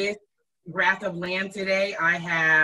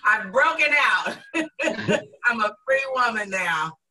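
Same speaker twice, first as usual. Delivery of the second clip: laughing; 3 semitones higher than usual. Real, not acted. Laughing joke about breaking free.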